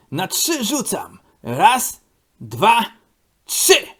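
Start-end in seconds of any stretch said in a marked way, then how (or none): 1.4-3.9 count shout. Acted. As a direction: call the throw. Odlicza przed rzutem piłki. (głośne odliczanie przed rzutem)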